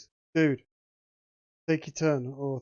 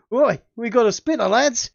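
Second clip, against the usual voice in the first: louder, higher booming Aussie-ish jeer; more booming voice; 7 semitones higher, 9 dB louder than usual. Acted. GM redoing the demon taunt, more booming. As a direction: boom it out to the whole gang. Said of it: "in a slightly more booming voice".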